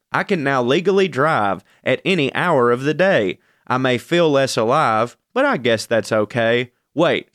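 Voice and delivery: sing-song rhyming poem reading; poem recitation. Acted. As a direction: recite it like comic verse. Reads own poem aloud.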